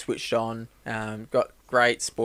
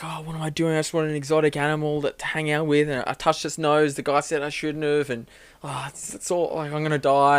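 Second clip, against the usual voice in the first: mock panic; 4 semitones higher than usual. Panicked guy cornered by bear.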